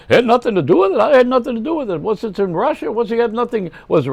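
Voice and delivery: high, loud, incredulous comic voice; Jackie Mason. Retold or imitated. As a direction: needle Putin like a sarcastic stand-up. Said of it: "Jackie would have loved that".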